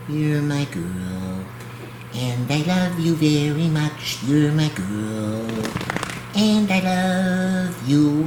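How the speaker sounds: slow, tender cooing to a dog; doting pet talk. Real, not acted. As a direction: gush over the little dog, slowly.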